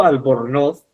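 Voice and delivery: ALBORNOZ stressed on NOZ, rising; stress on last syllable. Shown as a demonstration. Teacher showing what sounds better, stress on NOZ in ALBORNOZ. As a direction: land firmly on the final NOZ of ALBORNOZ. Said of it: "se escucha mejor".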